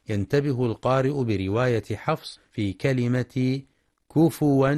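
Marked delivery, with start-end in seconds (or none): 4.1-4.7 "كفوا" as kufuwan, with damma on fa and a waw; waw for hamza. Shown as a demonstration. Teacher modelling Hafs reading, "كفوا" as kufuwan. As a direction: say "كفوا" with a u after fa, then wan. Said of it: "لإبدال الهمزة واوا".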